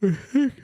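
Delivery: a long audible yawn. Real, not acted. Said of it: "I yawned".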